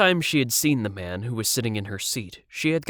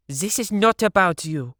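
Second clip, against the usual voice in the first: stern dismissal; 9 semitones higher, 4 dB louder than usual. A narrator's reading. Siv angry.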